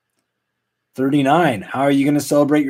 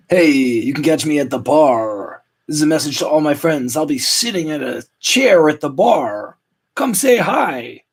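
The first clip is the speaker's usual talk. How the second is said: announcing to friends; 3 semitones higher than usual. Retold or imitated. Host inviting friends to the bar, mock-cheery announcement. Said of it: "I said".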